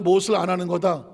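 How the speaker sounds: ordinary delivery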